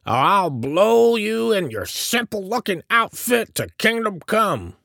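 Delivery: very high, loud cranky tirade; snapping threat. A narrator's reading. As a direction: threaten to blast them off the property. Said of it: "snapped and went on".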